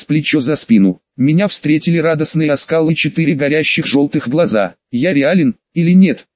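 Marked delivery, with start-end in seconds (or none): 4.9-6.3 hissing creature. Acted. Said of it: "прошипела тварь".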